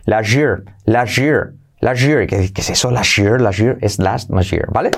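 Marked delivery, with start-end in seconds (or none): 0.0-2.3 "La jir" with the joined sh sound; linked sh sound. Shown as a demonstration. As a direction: run "La jir" together, sh in the middle. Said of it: "al unirse a la Y se convierte en un sonido sh".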